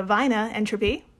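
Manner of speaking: "Wiener" said as "vainer", in a mock German accent; lightly put-on German accent, with a V for the W. Shown as a demonstration. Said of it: "German accent anyone's ever done".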